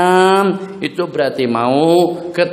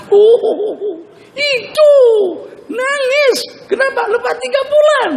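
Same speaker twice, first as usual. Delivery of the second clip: amused surprise; 3 dB louder, slower than usual. Acted. Father mocks surprise with laughter.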